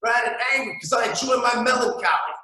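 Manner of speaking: lampoon a jaded listener; high whiny mock lament; whiny cynic. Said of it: "you're like".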